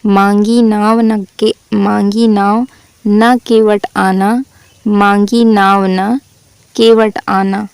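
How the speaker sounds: slow, sung-out recital of the repeated line; the teacher slowly recites the repeated line for the class; verse recitation. Shown as a demonstration. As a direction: stretch out the repeated line slowly, almost chanting. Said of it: "पूरी पंक्ति repeat होगी".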